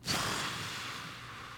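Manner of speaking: long breathy exhale; long sigh. Retold or imitated. Man met with an awkward question, long sigh. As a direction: let out a long, slow sigh.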